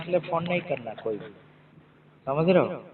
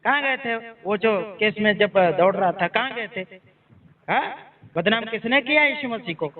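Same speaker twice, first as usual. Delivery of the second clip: angry confrontation; 2 semitones higher than usual. Real, not acted. Angry pastor confronting caller.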